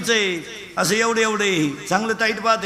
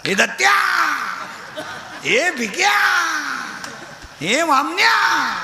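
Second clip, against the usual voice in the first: mock name-calling; 10 semitones higher, much slower than usual. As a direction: yell names across the street, stretching the last syllable. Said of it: "नावानं हाका मारायच्या".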